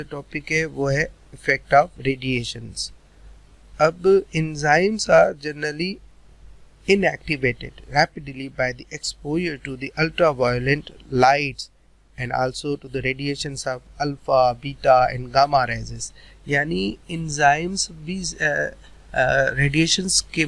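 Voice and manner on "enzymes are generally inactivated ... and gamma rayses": slow, word-by-word dictation pace; slow note dictation. Shown as a demonstration. Teacher slowly dictating notes to students, word by word. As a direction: read it out slowly so students can write.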